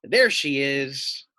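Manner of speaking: slow and loud, spotting his prey; sly wolf. Acted. Teacher voicing the hungry wolf spotting the sheep, slow and loud. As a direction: drag it out like a stalking wolf. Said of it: "here we have him saying".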